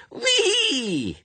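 put-on very high, loud child's "whee"; long, high squeal of glee; delighted squeal. A narrator's reading. Little suspect rides the ducking stool, gleeful squeal.

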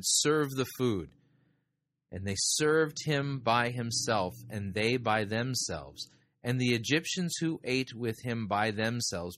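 measured, formal reading of the Bible passage; solemn Bible reading; scripture reading. Acted. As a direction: read the verses aloud to the congregation with care. Reading Genesis aloud in sermon.

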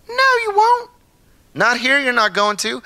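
put-on yelling after child. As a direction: shout her back from the corner. Father calls after running child.

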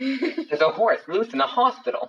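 slow, laughing comic quote; John Mulaney quote. Retold or imitated. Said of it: "Do you know John Mulaney?".

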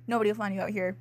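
deadpan sinister line; mock menacing. Shown as a demonstration. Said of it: "making a serious tone".

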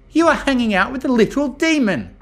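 loud, high-pitched disbelief; excited exclamation. A narrator's reading. Rainbow pointing at the demon, excited disbelief. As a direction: blurt it out at full pitch. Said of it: "Rainbow exclaimed excitedly".

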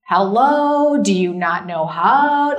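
sing-song put-down. Retold or imitated. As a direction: talk down to the kid in a lilting voice. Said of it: "my husband calls it the singing voice".

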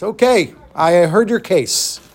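lightly voiced judge, measured and deliberate; pronouncing judge. Judge gives Eliezer his verdict, deliberate. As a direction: hand down a verdict weightily. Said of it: "So the judge says".

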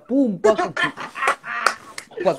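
imitated banging. Imitates the action with noises.

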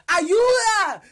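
high, loud cry for help; child screaming for help. Retold or imitated. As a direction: scream it like a scared kid. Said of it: "Empieza a gritar".

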